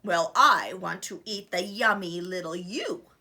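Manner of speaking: low, loud hungry troll; menacing troll. Acted. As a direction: growl out the threat. Troll threatens goat.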